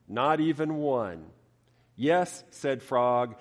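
lively storybook reading; story narration. A narrator's reading. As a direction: read it like to children. Preacher reads Frog and Toad story.

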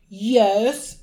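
imitating a grudging reply; resentful. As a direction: drag out a reluctant admission.

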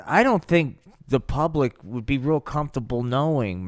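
usual speaking voice

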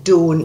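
"Don't" with a pure long O; Scottish "Don't", modelled for a learner; Scottish O sound. Shown as a demonstration. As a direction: say "Don't" with one unglided O, each evenly. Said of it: "write it the way you hear it".

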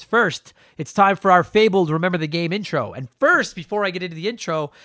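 breathing heavily, stuffed-up nose; heavy breathing. Real, not acted. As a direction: talk through allergies, breathing heavy. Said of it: "it's 'cause I am breathing heavy and my nose is really stuffed up".

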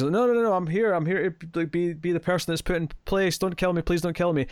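mock begging. President begs not to be killed, mock pleading. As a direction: imitate a man pleading for his life in a rush of repeats. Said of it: "just sort of begs".

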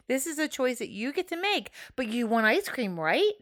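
put-on measured parent-to-kid voice, ending on a coaxing question; patient parent. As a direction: explain it carefully to a small child. Parent reasoning with a child.

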